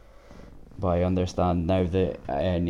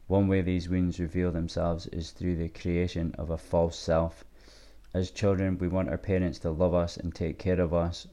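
reading aloud. Acted. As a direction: read the passage out steadily. Reads a passage aloud.

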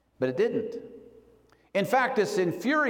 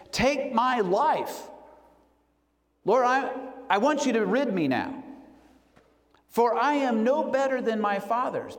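despairing plea; 4 semitones higher than usual. Retold or imitated. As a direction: drag Take out, begging the Lord. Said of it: "crying out to the Lord".

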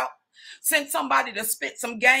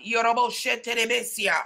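shouted tongues. Real, not acted. Preacher bursting into tongues, shouted. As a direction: cry it out in tongues.

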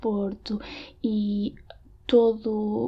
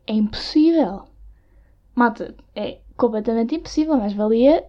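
usual speaking voice

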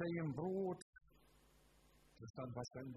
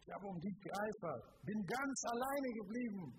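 mock whine building higher and louder; whining; 6 semitones higher, 4 dB louder than usual. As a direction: complain to God as if abandoned. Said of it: "jammerte Gott".

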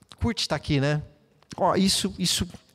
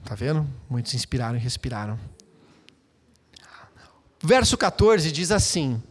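whisper; 4 semitones lower than usual. Real, not acted. Pastor whispers to the congregation before reading the verse. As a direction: hush them, then read.

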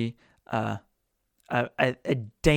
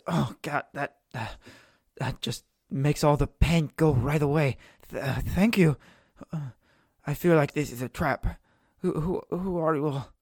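relieved, wary captive. Acted. Healed prisoner thanks, questions party.

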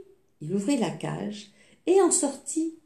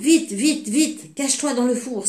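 hurried, a little louder and higher; urgent warning; 4 semitones higher, 4 dB louder than usual. Acted. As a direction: push him to hide, quick. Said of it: "s'écria la géante".

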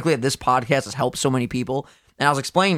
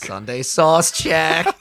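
slow shouted catchphrase; much slower than usual. Acted.

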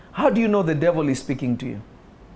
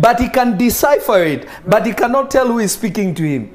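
excited laughing preaching; 6 semitones higher, 4 dB louder than usual. Real, not acted. Preacher laughing, louder, higher.

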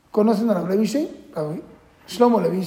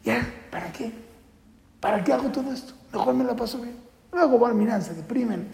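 disillusioned youth; 2 semitones higher than usual. Retold or imitated. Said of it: "que están".

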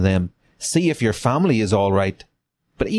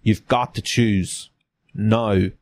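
measured Southern officer; lightly put-on Southern accent; Frank Underwood accent; slower than usual. Officer forcing the captive to choose, light Southern accent. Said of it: "That's a Frank Underwood accent".

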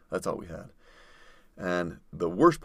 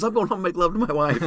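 high, loud yell with love emphasized; yelling quote; 9 semitones higher, 3 dB louder than usual. Retold or imitated. Brian shouting he'll make love to wife, high yell. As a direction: roar the corrected vow.

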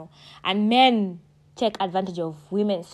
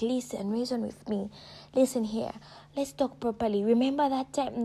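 mock pleading; 4 dB quieter than usual. Pleading with God on Judgment Day.

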